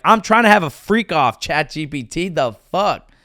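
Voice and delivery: mock outrage. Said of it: "and you're like".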